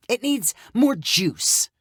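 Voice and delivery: skeptical. Acted. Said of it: "used her skeptical look again".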